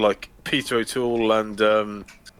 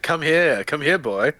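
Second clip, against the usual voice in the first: higher, calling after a runaway; mock chasing call; 5 semitones higher, 3 dB louder, slower than usual. Teacher chasing a student, mock call. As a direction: call the student like a stray dog.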